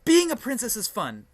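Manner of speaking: loud regal princess voice; Canterlot voice. Acted. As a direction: announce it like royalty. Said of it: "the Canterlot voice has a tendency to overreact".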